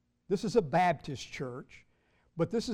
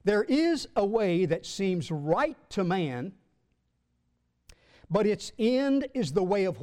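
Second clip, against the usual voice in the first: emphatic scripture reading; 3 semitones higher, 4 dB louder than usual. Acted. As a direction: read the verse out with weight. Reads scripture aloud to congregation.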